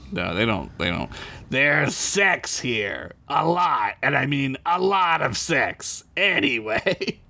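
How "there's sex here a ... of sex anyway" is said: lightly voiced Gorn, deliberate delivery; a hint of Gorn, words drawn out at the end. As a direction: read it as a pompous alien reptile. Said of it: "you do a Gorn voice this time".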